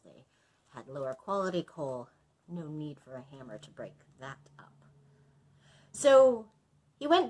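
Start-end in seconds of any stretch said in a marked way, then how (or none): 2.5-4.7 whispered aside. Real, not acted.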